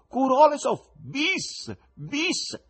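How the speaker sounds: high, loud acted shouts; very high-pitched cries; yelling. A narrator's reading. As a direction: shout it out like calling for an encore. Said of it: "urla di continuo".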